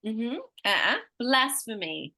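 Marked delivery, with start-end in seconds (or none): 1.2-2.1 "blasphemy" as BLAS-phuh-mee; stress on first syllable. Shown as a demonstration. Teacher correcting a guess, BLAS stressed in "blasphemy". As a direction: lean on BLAS in "blasphemy", falling after. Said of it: "tell me where I'm emphasizing".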